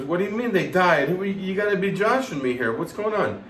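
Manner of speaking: retold indignant questioning; incredulous protest. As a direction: protest as the friend who can't believe it. Retold disbelief at candles dying.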